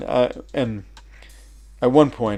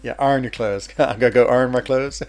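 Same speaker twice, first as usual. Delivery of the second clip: West Virginia accent; 3 semitones higher, 4 dB louder than usual. Shown as a demonstration. Voice changing for the immigration guy, West Virginia twang. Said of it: "instantly my voice changes into".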